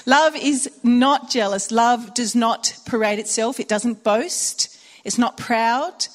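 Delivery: slow, weighty preaching voice; solemn reading of the love passage; scripture recital. Acted. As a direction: proclaim each line slowly and deliberately.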